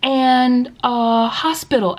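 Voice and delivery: put-on high, halting kid voice; slow, high, word-by-word pupil voice; imitating young student. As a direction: mimic a child hunting for English words. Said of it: "And then they'd be like".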